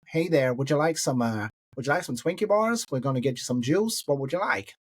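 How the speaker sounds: imitated American cabin-crew offer; American accent. American flight attendant offering snacks to a passenger, American accent. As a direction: put on an American hostess's patter. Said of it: "Sorry about my American accent".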